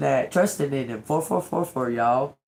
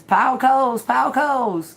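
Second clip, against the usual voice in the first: stern command; 9 semitones higher, 6 dB louder than usual. Pretend. God's voice quoted.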